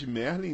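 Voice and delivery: MERLIN as Brazilians read it, MEH-r-lee; wrong American pronunciation. Shown as a demonstration. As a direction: say Merlin with an open Portuguese E. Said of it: "não se pronuncia Merlin".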